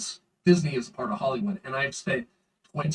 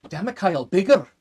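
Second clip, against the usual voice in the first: put-on Indian accent; 4 semitones higher, 7 dB louder than usual. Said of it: "I love the way you copied this".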